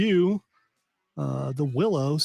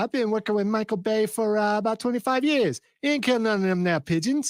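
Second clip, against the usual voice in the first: country handler voice; 7 semitones higher than usual. Acted. Acting out a pigeon handler.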